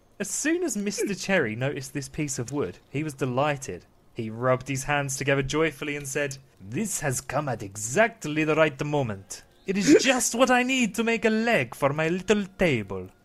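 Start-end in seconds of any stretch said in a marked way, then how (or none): 6.6-13.1 eastern European accent in put-on character voice. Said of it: "Why is he Dracula?".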